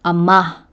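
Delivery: Ama with a strong final -ma; stress on last syllable. Shown as a demonstration. Teacher showing Tagalog end stress to learners, final syllable stressed in Ama. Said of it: "end stress laid on the last syllable".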